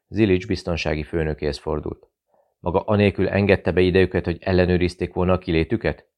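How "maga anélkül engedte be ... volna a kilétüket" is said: cold, controlled demand; icy question. Acted. Zilics coldly questions his security chief, icy. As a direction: ask it frostily, no warmth. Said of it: "kérdezte fagyosan".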